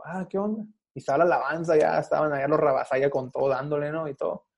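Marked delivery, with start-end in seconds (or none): 0.0-0.6 mock tough guy. Acting tough toward preacher.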